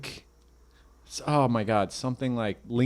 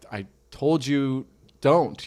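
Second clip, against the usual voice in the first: stern parent; 3 semitones higher, much slower than usual. Retold or imitated. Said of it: "And I'm like".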